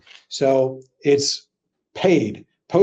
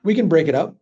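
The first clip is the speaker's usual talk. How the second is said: vague and noncommittal; faster than usual. Shown as a demonstration. Coach to class, repeating the line deliberately ambiguous. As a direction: float it casually, leaving it open. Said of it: "I always say it like that, really ambiguous".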